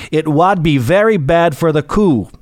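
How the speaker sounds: put-on lightly done Northumberland accent, a touch botched; a half-hearted Northumberland accent with a dry, wry punchline; George Stephenson's Northumberland accent. Stephenson answers the mocking committee member, in a light Northumberland accent. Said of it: "with his thick Northumberland accent".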